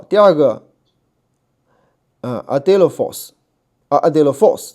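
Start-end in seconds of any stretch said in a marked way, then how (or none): 2.5-4.7 "adelphos" with the final syllable stressed; slow model "adelphos", weight landing on "phos"; stress at the back. Shown as a demonstration. Teacher modelling a new word for students, back-stressed "adelphos". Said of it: "这个重音在后面".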